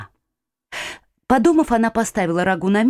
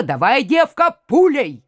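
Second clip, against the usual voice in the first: brisk command; 5 semitones higher than usual. A narrator's reading. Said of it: "Последние слова Шушпанов произнёс так".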